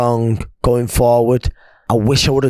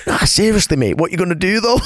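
higher mock-serious question through a grin; imitating mate laughing; 7 semitones higher than usual. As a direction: play the teasing mate. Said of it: "and he's going".

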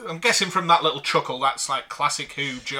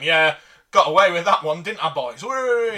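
mock gloating; 4 dB louder than usual. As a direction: crow like you got away with it, hammed up. Mock quote of a gleeful culprit.

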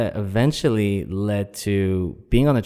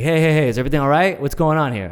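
fast, high, louder intervention; concerned bartender; 8 semitones higher, 4 dB louder, much faster than usual. Retold or imitated. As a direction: rush in to break it up.

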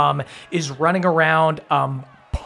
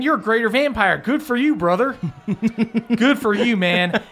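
high, grudging congratulation; agitated character; 7 semitones higher than usual. Acted. Lesser vampire envying the greater vampire, high agitated voice. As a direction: congratulate him in a higher character voice. Acted envious congratulation in scene.

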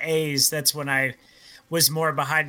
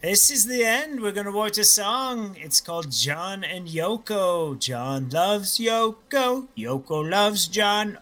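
put-on British accent; 4 semitones higher, slower than usual. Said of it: "bad British accents".

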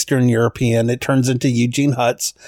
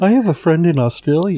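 bright mock Aussie twang, quick; hammy Aussie accent; Australian accent; 6 semitones higher, faster than usual. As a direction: put on a cheesy Australian accent. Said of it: "He's heard me do bad accents".

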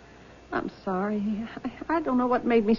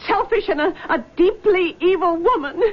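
tearful accusation; 3 semitones higher than usual. Acted. Daughter lashes out at mother.

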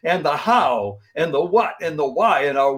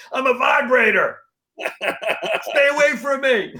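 high, laughing silly declaration; laughing mock line; 7 semitones higher than usual. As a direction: laugh through a cheeky boast.

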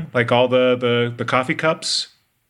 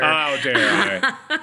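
laughing; slower than usual. Real, not acted. Echoing mock offense, laughing.

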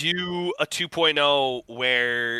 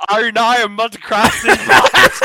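loud, higher New Zealand accent; 6 semitones higher, 7 dB louder than usual. Shown as a demonstration. Investor showing off his accent in loud mock New Zealand. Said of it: "That was my New Zealand, uh, egg shed".

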